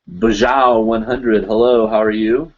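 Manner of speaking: put-on a slow, half-hearted British accent; a lightly put-on British accent; bad British accent. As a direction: toss off a British greeting on the fly. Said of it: "my bad British accent".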